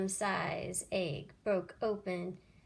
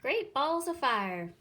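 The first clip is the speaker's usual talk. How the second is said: higher, louder goose exclamation; a goose bursting out in amazement; cried out; 5 semitones higher, 6 dB louder than usual. A narrator's reading. Goose spots the nest and cries out loudly. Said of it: "she cried".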